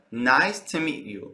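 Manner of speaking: "to" weakened to a quick "tə"; reduced "to". Shown as a demonstration. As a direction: let "to" shrink to "tə" before "meet". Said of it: "Notice how to is reduced".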